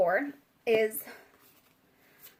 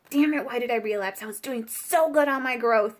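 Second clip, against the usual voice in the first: loud, acted self-reproach; frustrated; 5 dB louder than usual. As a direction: play someone frustrated with themselves. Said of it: "like, so frustrated".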